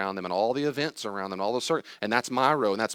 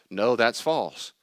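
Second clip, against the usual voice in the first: "No, that's false" drawn out slowly and firmly, falling; emphatic; 2 semitones higher, 5 dB louder, much slower than usual. Shown as a demonstration. Speaker rejecting a false belief, emphatic and slow. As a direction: land hard on "false" at a slow pace. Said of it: "emphatically say the true belief".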